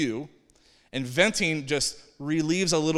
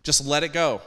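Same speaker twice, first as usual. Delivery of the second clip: Just let it go, now voiced and louder; 5 dB louder than usual. Preacher repeating the first step to his listeners, louder. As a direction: ring it out after the whisper. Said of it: "Number one".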